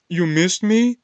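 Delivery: high, loud incredulous squeak; mock surprised. Imitating the girl's surprise that someone missed her, high and loud.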